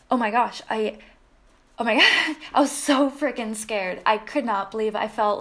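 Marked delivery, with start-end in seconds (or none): 1.8-4.0 laughing through it. Real, not acted. Laughs while retelling fright.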